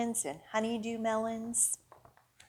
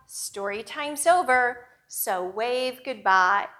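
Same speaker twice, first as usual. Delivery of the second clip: louder, slower rhyme chant; bouncy, louder goodbye chant; goodbye action rhyme; 3 dB louder than usual. A narrator's reading. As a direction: lead the kids through the actions.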